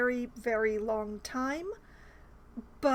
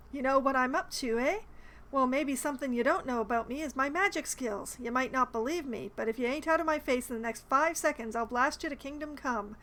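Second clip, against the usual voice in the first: amateur New Yorker impression; attempted New York accent. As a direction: read it in a half-hearted New York accent. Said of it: "I am really disliking reading this accent".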